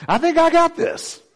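put-on toddler voice. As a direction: imitate a toddler's bold boast. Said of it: "just goes".

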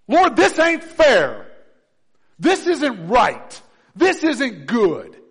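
loud, slow whining complaint to God; mock gripe prayer. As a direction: drag out the grumble like a sulking believer. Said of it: "our gripes to the Father".

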